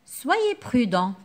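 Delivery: slow "Soyez prudent" with weight on soyez; slow caring advice; gentle advice. Shown as a demonstration. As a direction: warn kindly and slowly. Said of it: "Ici, je donne un conseil".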